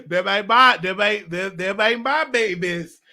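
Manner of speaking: mock protest, stumbling and drawn out; emphatic denial. Denying fatherhood of her twins, emphatic mock protest. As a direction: insist on it, stretching the last words slow.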